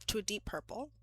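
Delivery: breathy whisper, like telling a secret. Shown as a demonstration. Whispering the wine color to her viewers. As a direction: whisper it softly, no voice at all. Repeats phrase, then whispers it.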